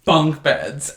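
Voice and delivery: drawn out careful asking; hopeful slow plea. Retold or imitated. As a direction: ask slowly, hoping for yes.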